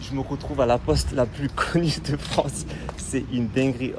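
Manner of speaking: real nervous laughter in the words. Real, not acted. Vlogger back at the notorious post office, nervous laugh. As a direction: talk through a brief nervous laugh. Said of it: "c'est un rire nerveux".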